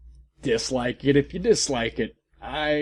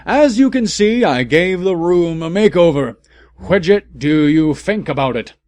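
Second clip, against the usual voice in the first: higher, louder, proud and cheery; happy showing off; 5 semitones higher, 9 dB louder than usual. Acted. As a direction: show off the new room, delighted. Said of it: "he said happily".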